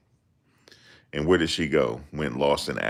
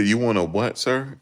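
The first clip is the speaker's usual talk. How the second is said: rising high baffled question; mock confused cashier; 7 semitones higher than usual. Cashier asking the customer to repeat, mock confusion. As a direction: play the cashier who can't believe it. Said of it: "They say".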